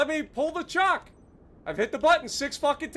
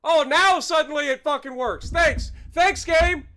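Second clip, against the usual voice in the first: sarcastic thanks; 2 semitones higher, 4 dB louder than usual. Real, not acted.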